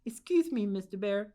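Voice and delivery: put-on old lady nervously addressing the bear. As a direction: stutter out the apology. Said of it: "she said nervously".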